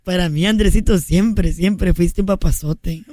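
put-on straining for an old lady voice; squeezed old woman voice; strangled voice. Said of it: "No me sale la voz".

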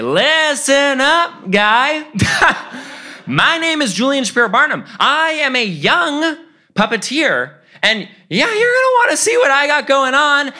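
very high, squeaky mock-tough kid; defiant pitch. Rejected kid confronts his idol again, high and defiant.

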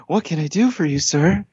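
put-on front desk girl. Desk girl answering an angry guest, high-pitched imitation. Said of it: "I said to the girl there".

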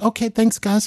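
imitating Michael's high, light thanks. Michael thanking everyone for coming, in a high voice. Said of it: "we're back to the high voice".

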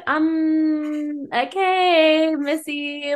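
high, skeptical mock voice; sassy mock reply. Mocking a friend who shrugs off heartbreak, high and sassy. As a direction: tease her friend in a sassy put-on. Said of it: "I'd be like".

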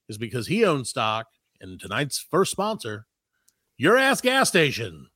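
slow, booming radio announcer read. Pretend. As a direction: ad read like an old DJ. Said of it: "I can't help but do the radio voice".

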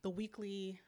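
unvoiced whispered aside. Real, not acted. Podcaster whispering about the weekly sit down. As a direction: breathe it out like gossip.

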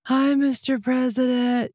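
slow, timid little orphan greeting; plucky orphan, cowed by the president; intimidated orphan voice. Shown as a demonstration. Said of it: "my acting choice to go ... filtered it with intimidation".

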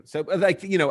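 ordinary talk, nothing marked

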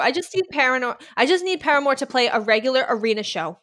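worked-up rant with a Boston accent. Real, not acted. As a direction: let the Boston accent slip out while ranting. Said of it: "you got so worked up right there, and I heard your Boston accent come out".

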